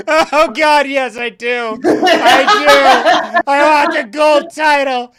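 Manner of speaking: high, loud, laughing wail of desperate want; mock desperate wailing. Gamer retelling her surrender to the game, loud laughing wail. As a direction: wail it like a hopeless addict, laughing. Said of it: "crying on the floor".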